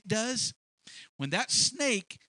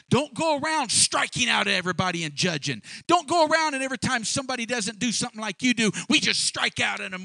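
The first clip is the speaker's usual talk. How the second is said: raised, emphatic sermon delivery; forceful preaching; 6 semitones higher, 5 dB louder, faster than usual. Real, not acted. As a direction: drive each point home to the congregation.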